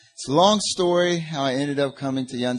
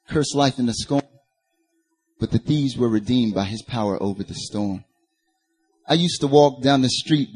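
rhythmic rhymed performance poetry; spoken word. Real, not acted. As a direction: deliver it in measured bars, landing on each rhyme. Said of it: "like, spoken word or something".

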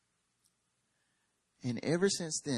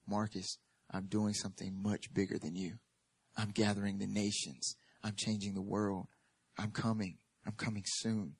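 hushed voice of God; 4 semitones lower, 5 dB quieter than usual. Acted. Voicing God's words, softer.

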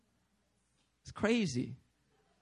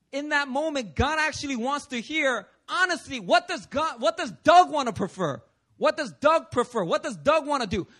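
impassioned preaching; 3 semitones higher, 4 dB louder than usual. Real, not acted. Preacher pressing the point.

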